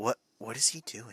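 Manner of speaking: hushed, half-whispered stage whisper. Leaning over in character and asking about another player: half-whispering to a character. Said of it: "and whispers to Zeus".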